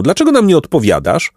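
high-pitched, mildly indignant demand; storybook shout, held back; restrained shout. A narrator's reading. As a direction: demand an answer. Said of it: "krzyknął".

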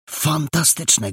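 slow, high, relished exclamation; impressed delight. Acted. Boy hears of a new way in, impressed and delighted. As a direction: stretch it out high in wonder.

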